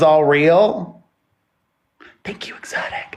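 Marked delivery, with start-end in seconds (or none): 2.2-3.2 quick whispered aside. Real, not acted. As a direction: whisper a thank-you off mic. Aside thanking a viewer.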